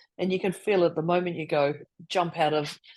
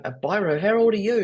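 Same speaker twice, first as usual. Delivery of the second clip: mock disbelief, louder on the second question; imitated incredulous listeners; 4 dB louder than usual. Guest imagining Australians reacting to biro, imitated incredulity. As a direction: question it as a baffled listener would. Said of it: "they're probably going".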